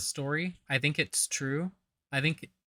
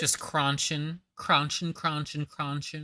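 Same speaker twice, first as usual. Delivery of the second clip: mocking; 4 semitones higher, slower than usual. Mocking the chewing in the story.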